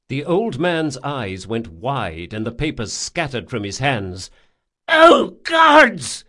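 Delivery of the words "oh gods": high, loud panicked cry; terrified cry. A narrator's reading. Old man sees the intruder in his bedroom, terrified cry. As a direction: cry out to the gods in alarm. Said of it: "he cried".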